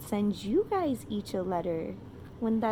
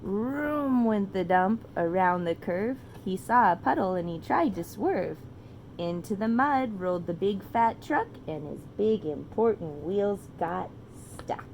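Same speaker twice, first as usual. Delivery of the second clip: put-on reading to children. A narrator's reading. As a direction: read it like a bedtime story to a toddler.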